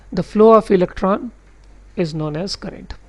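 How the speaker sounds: very slow, word by word definition read; slow dictation reading. Shown as a demonstration. Teacher reads the textbook definition to his class slowly. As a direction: read the definition out slowly so students can note it.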